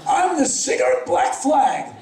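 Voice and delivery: shy laugh through the words; half-laughing as you say it; nervous young singer introduces himself to a bartender, laughing; laughing introduction. Retold or imitated.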